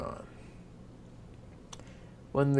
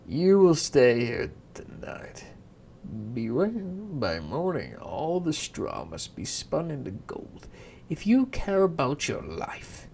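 menacing king; 2 semitones higher, 5 dB louder than usual. Acted. King threatens girl.

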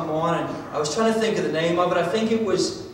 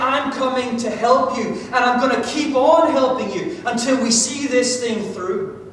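emphatic promise; 5 semitones higher, 4 dB louder than usual. Acted. Preacher voicing God's promise.

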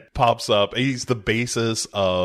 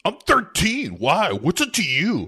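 put-on whiny kid; 11 semitones higher than usual. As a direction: whine it like a caught thirteen-year-old. Sam answering Cyrus defiantly.

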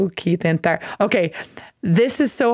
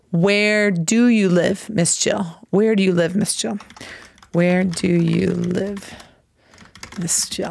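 slow teaching read. Shown as a demonstration. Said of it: "so you can see how to write it".

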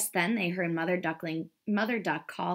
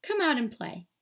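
higher, inviting swan call; 7 semitones higher than usual. A narrator's reading. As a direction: coax the hidden duckling out. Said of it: "called the swan".

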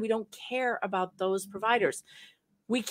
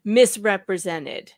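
misrepresented said slowly and deliberately; slow, careful delivery of the correct term; measured legal wording; 4 dB louder, slower than usual. Shown as a demonstration. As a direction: lay out the proper lawyer word with care. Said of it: "You say things like".

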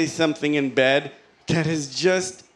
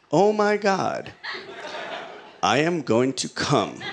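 mock urgent exclamation. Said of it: "I exclaimed".

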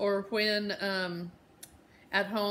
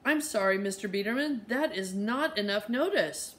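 barked; 2 semitones higher than usual. Acted. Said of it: "Mama barked into her cell phone".

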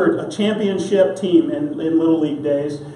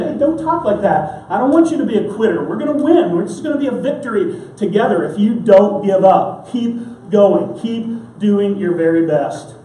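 Jesus urging you on, raised a little and quicker in places; encouraging. Retold or imitated. Jesus to a discouraged believer, encouraging and upbeat. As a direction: cheer the listener on not to quit. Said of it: "Jesus is always right there saying".

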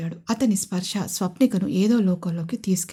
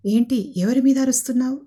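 raised, louder startled ask; surprised question; 5 semitones higher, 4 dB louder than usual. Acted. Husband walking in, surprised to hear shouting. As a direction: sound caught off guard. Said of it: "అని ఆశ్చర్యంగా అడిగాడు విజయ్".

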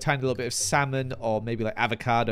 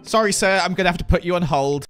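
louder, higher play-acted official; mock office clerk; 4 semitones higher, 6 dB louder, faster than usual. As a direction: put on a phone clerk's refusal. Acting out the permit office clerk.

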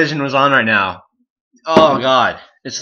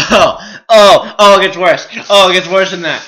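raised, pained exclamations; pained complaint; 6 semitones higher, 6 dB louder than usual. Real, not acted. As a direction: moan loudly as the burn builds. Burn keeps getting worse.

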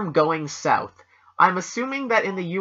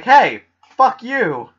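mock yell; 7 semitones higher, 8 dB louder, much slower than usual. Delaware voiced yelling.

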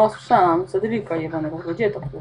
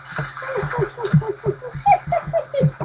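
long much higher cackling laugh; high laughter. Real, not acted. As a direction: burst out laughing at the mess. Laughs at lost game. (głośny śmiech)

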